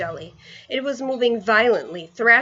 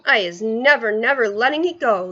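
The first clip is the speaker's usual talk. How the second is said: determined cry; 2 semitones higher, 4 dB louder than usual. Acted. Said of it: "the B F G cried".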